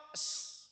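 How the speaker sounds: "s" desis tipis, bukan SH; bunyi S. Shown as a demonstration. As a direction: desiskan "s" sebagai contoh huruf. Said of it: "Bisanya ngomong". ("s" polos tanpa bunyi SY)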